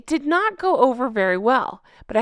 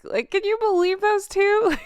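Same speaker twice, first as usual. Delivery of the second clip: high, shocked gossip voice; scandalized royal; 11 semitones higher than usual. Retold or imitated. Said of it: "what their faces look like".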